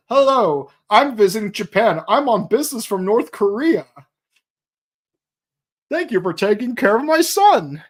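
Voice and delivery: hammed-up American accent. American dad thanking his son's hosts, very American accent. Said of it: "with a very American accent".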